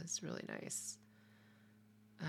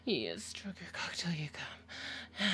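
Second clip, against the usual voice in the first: whispering. Real, not acted. Intimate whispered instructions.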